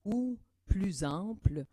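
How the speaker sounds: slow, airy whisper with lots of breath; breathy demo of full airflow; breathy ample airflow. Shown as a demonstration. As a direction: let a big stream of air out as you speak. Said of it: "tout en restant stable et constant".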